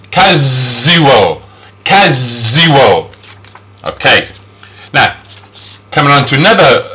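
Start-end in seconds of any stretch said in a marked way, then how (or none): 0.1-3.1 "casual" slowly, with a long buzzing z for the s. Shown as a demonstration. Teacher showing S like a Z, "casual" with stretched z. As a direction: draw out the z inside "casual". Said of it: "we pronounce S like a Z".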